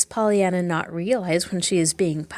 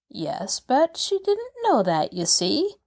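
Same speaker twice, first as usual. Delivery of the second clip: dry; 5 semitones higher than usual. Acted. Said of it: "observed Nancy dryly".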